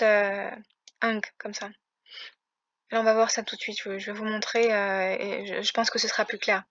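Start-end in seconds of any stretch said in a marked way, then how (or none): 1.0-1.2 "ang" said with a nasal g sound; pronunciation demo. Shown as a demonstration. Teacher showing learners a Greek letter pair, demonstrating "ang". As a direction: show how "ang" sounds. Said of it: "en fait, elle se prononce".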